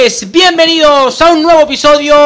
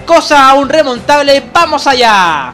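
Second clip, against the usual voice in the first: brisk football commentator voice; live play-by-play. Acted. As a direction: call the match as it happens. (narración de partido en directo)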